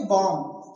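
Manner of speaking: बॉम्ब as "bom", ending on M; बॉम्ब with no closing "b"; silent B. Shown as a demonstration. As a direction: drop the last B of बॉम्ब. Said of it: "तो क्या बोलेंगे?".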